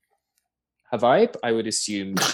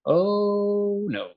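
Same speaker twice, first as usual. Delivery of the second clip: high, drawn-out mock-dismayed "oh"; embarrassed realisation; 11 semitones higher than usual. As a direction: cringe at your own old mistake. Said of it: "heard it pronounced the right way and was like".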